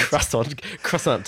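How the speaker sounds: clumsy stab at French, pitched a little up; butchered French accent. Shown as a demonstration. Hosts butchering the French word, butchered French accent. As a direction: try it in a badly mangled French accent. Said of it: "We're butchering the French accent here".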